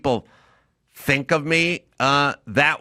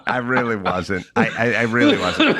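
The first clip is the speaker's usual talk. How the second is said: protesting through laughter; laughing denial; 3 semitones lower than usual. Retold or imitated. To the old friend at the funeral, laughing denial. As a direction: laugh while insisting it isn't true. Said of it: "and I said".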